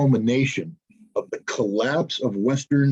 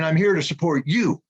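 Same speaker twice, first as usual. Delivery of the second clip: imagined prime minister's pledge; 4 semitones higher than usual. Retold or imitated.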